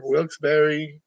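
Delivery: Wilkes-Barre with Barre as two syllables, like "berry"; alternative pronunciation. Shown as a demonstration. Listing local names for viewers, Wilkes-Barre said as "Wilkes-berry". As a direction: say Wilkes-Barre ending in an "ee" sound. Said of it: "They call it Wilkes-Barre".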